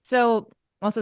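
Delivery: talking with a mouthful of chips; crunching chips. Real, not acted. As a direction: say it while chewing chips. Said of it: "I'm eating chips while I'm mute".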